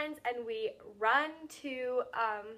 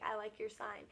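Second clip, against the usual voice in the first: softer, understated retelling of a mouthed remark; lightly imitated silent mouthing, voice lowered in volume; imitating mouthed words; 2 semitones lower, 7 dB quieter than usual. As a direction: say it softly, as if only mouthing it. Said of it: "but he, like, mouths it".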